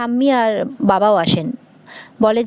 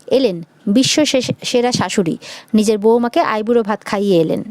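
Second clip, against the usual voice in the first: sarcastic taunt. Acted. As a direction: drag out the praise so it stings. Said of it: "খোঁটা দিয়ে কথা".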